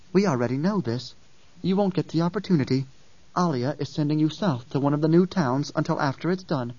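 put-on child voice, calm and firm; lightly voiced young girl, cold resolve. Ganima voiced by narrator.

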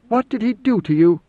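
demanding. A narrator's reading. Idaho pressing Mineo for the truth, demanding. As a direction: insist on an answer. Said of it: "Idaho demanded".

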